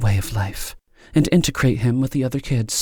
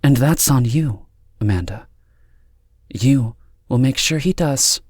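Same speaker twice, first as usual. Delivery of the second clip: cool, higher-pitched authority; 6 semitones higher, 4 dB louder than usual. A narrator's reading. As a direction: lay down the rules with deliberate pauses. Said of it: "and in a cool voice said".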